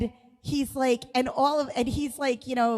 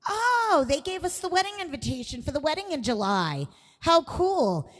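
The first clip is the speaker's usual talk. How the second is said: high bright oblivious oh, then a chatty read; father-in-law's oblivious chirp; 5 semitones higher than usual. Retold or imitated. Father-in-law misreading the invitation, chipper and oblivious. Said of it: "My father-in-law's like".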